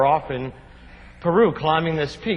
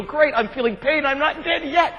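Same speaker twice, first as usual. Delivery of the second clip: wry relief; 9 semitones higher than usual. Retold or imitated. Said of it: "You go".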